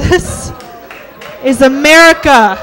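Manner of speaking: loud bigot declaration; mock patriotic shout. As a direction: bellow it proudly. Racist character bit, loud.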